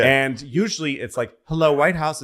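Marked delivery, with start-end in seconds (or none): 1.4-2.2 a lightly voiced polite operator greeting; switchboard operator. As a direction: routine cheerful phone greeting. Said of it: "It's a switchboard operator".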